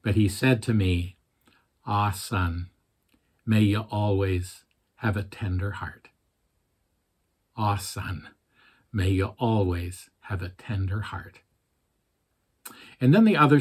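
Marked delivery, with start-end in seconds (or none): 1.9-6.1 soft, tender Scottish father; gentle Scottish burr, quietly; Scottish accent. Retold or imitated. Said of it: "He had a fairly thick Scottish accent". 7.6-11.4 put-on softer repeat in Scottish accent; quiet, tender Scottish father. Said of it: "He had a fairly thick Scottish accent".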